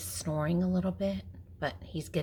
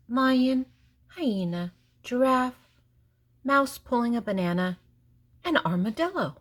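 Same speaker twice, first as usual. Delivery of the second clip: lively excited roll call; 5 semitones higher, 9 dB louder than usual. A narrator's reading. Listing animals for kids.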